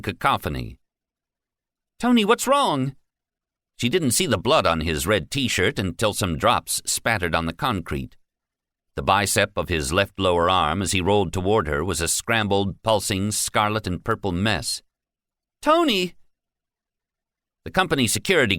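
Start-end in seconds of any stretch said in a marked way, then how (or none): 2.0-3.0 high, loud, frightened question; terrified plea to a hurt child; panicked cry. Acted. Frantic mother calls injured son. 15.6-16.1 high, loud cry of a name; panicked shout for an injured boy; frantic scream. Acted. Mother screams for injured son.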